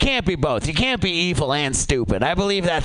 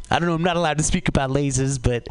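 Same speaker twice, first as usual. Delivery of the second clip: lightly voiced impression, hurried and hesitant; a quick, accidental celebrity impression slipping out; a hint of a famous comedian's voice, spoken fast; Woody Allen; 3 semitones lower, faster than usual. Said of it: "oh, that was Woody Allen".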